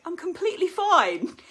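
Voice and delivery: high, loud forced cheer; mock cheery denial, high and loud; suspicious and dodgy. Shown as a demonstration. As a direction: overdo the cheer so it's suspect. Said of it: "it just looks dodgy".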